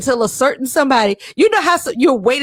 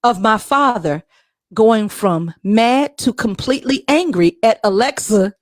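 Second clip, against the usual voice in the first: fireside storytelling. Acted. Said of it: "in the female Morgan Freeman voice".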